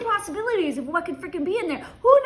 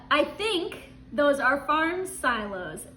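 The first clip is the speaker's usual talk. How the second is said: slow hesitant answer; slower than usual. Retold or imitated. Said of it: "and then you said".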